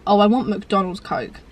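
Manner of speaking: slow, longing craving. Retold or imitated. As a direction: draw it out like you're desperate for it. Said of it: "I'm like".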